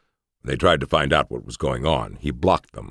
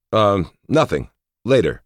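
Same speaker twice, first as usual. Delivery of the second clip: flustered; 6 semitones higher, 4 dB louder than usual. A narrator's reading. Flustered reply, raised.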